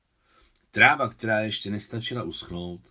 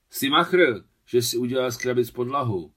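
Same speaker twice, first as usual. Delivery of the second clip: high, loud delighted cry; joyful shout; 4 semitones higher, 7 dB louder than usual. A narrator's reading. Boy praises Adam's box floor over pouring rain, joyful shout. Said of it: "radostně vykřikl Miťka".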